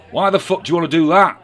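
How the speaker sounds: high, loud, fast brash voice; brash Angela Rayner. A narrator's reading. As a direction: blurt it out brashly.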